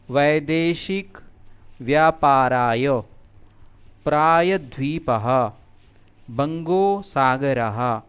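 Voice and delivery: slow, drawn-out Sanskrit words with long vowels; pronunciation demonstration. Shown as a demonstration. Teacher models Sanskrit words for students to repeat, slow careful pronunciation. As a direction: say each word slowly and distinctly, pausing for repetition. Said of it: "मैं बोलूँगा, आप इसे ध्यान से सुने और उच्चारण करें".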